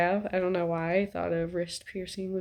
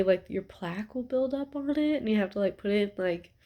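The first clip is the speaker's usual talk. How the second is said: blocked nose; stuffy nose; 2 semitones higher than usual. Real, not acted. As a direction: talk through a stuffy nose. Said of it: "sorry, I'm stuffy".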